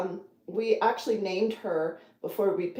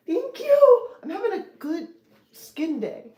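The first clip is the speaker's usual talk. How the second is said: laughing; 10 semitones higher, 10 dB louder than usual. Real, not acted. Laughing at own joke.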